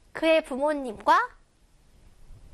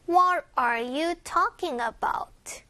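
slow question stressing "What" and "talking"; deliberate model question, "What" and "talking" stressed; 2 semitones higher, much slower than usual. Shown as a demonstration. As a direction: put weight on "What" and "talking". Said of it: "강세".

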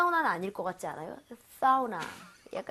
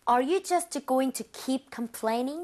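slow repeat; much slower than usual. Shown as a demonstration. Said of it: "같이 한번 가볼게요".

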